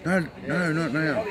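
high, urgent repeated no's; teasing imitation of the nervous girl, pitched high; imitating her protest. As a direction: mimic her flustered pleading. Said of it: "She goes".

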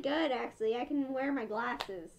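muffled inside costume head; speaking behind full head mask; through a mascot head. Real, not acted. Seen 0: Woman wears full fursuit head over face throughout; off at -7.

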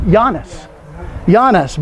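"Giannis" said as YAH-nis; pronunciation demo. Shown as a demonstration. Teacher showing a class the player's name, pronunciation demo. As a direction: say "Giannis" with a Y sound, stress first. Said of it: "it's pronounced Giannis".

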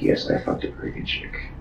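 breathy whispered admission. Real, not acted. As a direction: confess it under your breath. Hushed admission.

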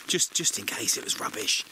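unvoiced secret aside; whispering. Real, not acted. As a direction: whisper it so he can't hear. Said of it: "I'll whisper so he can't hear me".

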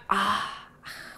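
낮고 작게 길게 끄는 '아'; 납득하고 물러나는 학생의 작은 탄식 흉내; 깨달은 학생의 탄식 흉내. Retold or imitated. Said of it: "막 이렇게 하고 돌아갔어". (길게 늘인 낮은 탄성)

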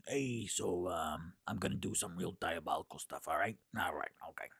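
lightly voiced troll, low and scheming; a hint of a sly diabolical troll. Describing her audition troll, a light troll voice. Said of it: "I talked like the troll like this".

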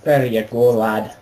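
light Scottish lilt on a friendly line; playful mock Scottish; Scottish accent. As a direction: toss it off like a Glasgow mate. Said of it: "I don't sound as Scottish as you when you do that".

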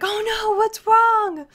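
lightly voiced concerned friend; imitating Not Jen. Streamer imitates Not Jen reacting to fake disgust, mock worried. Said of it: "and she'd be like".

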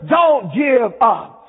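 slow emphatic exhortation; preached yell. Retold or imitated. God urging the church to endure, preached yell. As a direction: press each word home slowly. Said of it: "God yells to the church".

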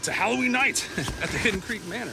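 booming spooky showman welcome; horror host. Acted. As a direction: greet them like a haunted house host. Spooky Halloween welcome greeting.

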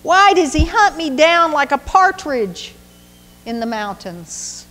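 a wronged son pleading with the king. Acted. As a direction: beg the king to see reason. David's anguished plea to Saul.

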